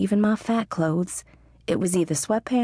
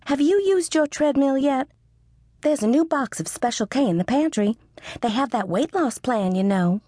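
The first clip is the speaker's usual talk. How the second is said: nagging mother; 6 semitones higher than usual. A narrator's reading. Mother on the phone pushing the diet, nagging. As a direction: push the diet on her daughter.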